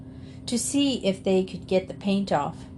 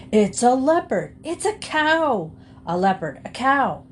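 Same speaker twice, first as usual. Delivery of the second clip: heated quarrel; 5 semitones higher, 4 dB louder than usual. A narrator's reading. Two men's quarrel boils over.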